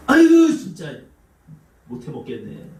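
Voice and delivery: wife fed up with her husband; exasperated sigh. Retold or imitated. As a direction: groan in exasperation then trail off.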